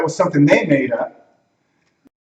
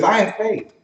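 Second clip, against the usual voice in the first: higher-pitched, lightweight claim of faith; unconvinced claim; 4 semitones higher than usual. Acted. A person claiming faith, lightly said. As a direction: toss it out without much weight. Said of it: "You hear the way they say it?".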